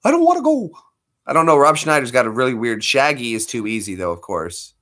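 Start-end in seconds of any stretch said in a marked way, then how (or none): 0.0-0.7 very high whiny voice; high nasal whine refusing; Rob Schneider impression. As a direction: whine it like a sulky kid.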